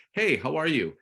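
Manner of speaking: upbeat hey, how are you; peppy greeting. Shown as a demonstration. Coach showing the better opener to the agent, peppy. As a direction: greet them like an old friend. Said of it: "It's like".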